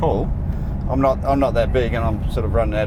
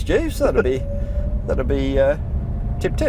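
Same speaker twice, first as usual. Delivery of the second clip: lightly hammed English gentleman; posh English accent. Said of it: "I should put on my English accent".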